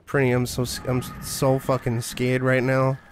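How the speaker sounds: flat pretend terror, mumbled; deadpan fake fear. Streamer repeating his joke to the viewers, deadpan fake fright. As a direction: claim fear without any fear. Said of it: "Can you hear it in my voice?".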